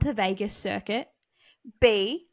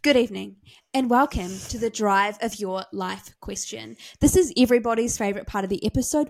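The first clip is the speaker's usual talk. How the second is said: mild newsreader intro voice; news reporter. Pretend. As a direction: open it like an evening anchor. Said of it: "keep getting more and more news reporter".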